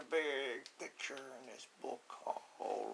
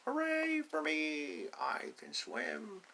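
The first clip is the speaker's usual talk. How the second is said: proud duckling cheer; 2 semitones higher, slower than usual. Acted. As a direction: cheer for yourself then settle.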